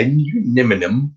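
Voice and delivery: lightly mimicked British accent; a hint of British, rising at the end; imitating British friend. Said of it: "our friend who's British".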